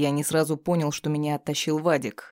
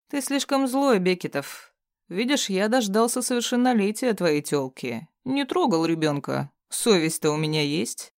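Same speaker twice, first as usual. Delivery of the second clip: sneering captive villain; 4 semitones higher than usual. Acted. Bound thug taunting his captor, mocking sneer. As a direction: jeer at him, barely altered voice.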